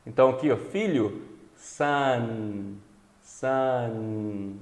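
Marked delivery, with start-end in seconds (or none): 1.6-4.6 sun ending in a held nasal N; long final N. Shown as a demonstration. Teacher models English final N, sun with a drawn-out N. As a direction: linger on the N of sun, lips spread. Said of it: "Dá um sorriso".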